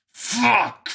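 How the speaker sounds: high, loud startled curse; surprised hiss. A narrator's reading. Vincent startled by a voice in his ear, surprised hiss. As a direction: burst out with it, startled. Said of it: "Vincent hissed in surprise".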